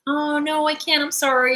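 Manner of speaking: polite refusal. Shown as a demonstration. Models a polite refusal without confrontation.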